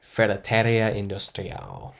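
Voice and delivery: badly attempted Spanish accent; lightly put-on, poor Spanish accent; terrible Spanish accent. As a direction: have a clumsy go at a Spanish accent. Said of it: "That was a terrible accent".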